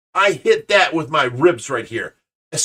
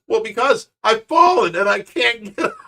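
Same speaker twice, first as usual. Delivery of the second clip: quoting the ad; 5 semitones higher than usual. Retold or imitated. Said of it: "he goes".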